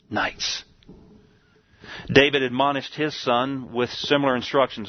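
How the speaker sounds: normal talking voice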